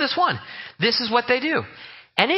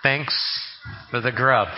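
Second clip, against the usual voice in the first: joke prayer through laughter; 3 semitones lower than usual. Retold or imitated. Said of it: "It goes like this".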